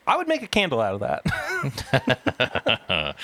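slow, laughing through the words; after laughing hard. Real, not acted. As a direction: still giggling as he speaks. Quoting friend amid laughter.

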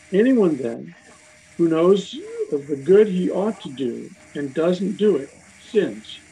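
measured Bible reading with lifted phrase openings; scripture reading. Acted. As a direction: read the verses aloud to a study group, emphatically. Reads scripture aloud.

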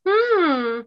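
mock innocent nudging, fading at the end; sly coaxing. Friend angling for her leftovers, sly coaxing.

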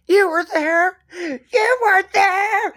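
high, slow, slurred mock drunk wail; drunk mom. Retelling the drunk mom at the wake, high slurred wail. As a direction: drag it out like a tipsy mourner. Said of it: "the mom is completely drunk".

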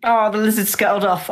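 ordinary talk, nothing marked

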